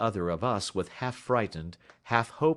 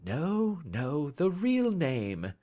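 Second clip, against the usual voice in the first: sweetly; 8 semitones higher, much slower than usual. A narrator's reading. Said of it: "said Holmes sweetly".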